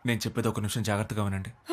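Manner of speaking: low, soft earnest request; quiet and serious. Acted. Son quietly asks the family to listen carefully, low and soft. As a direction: draw them in gently.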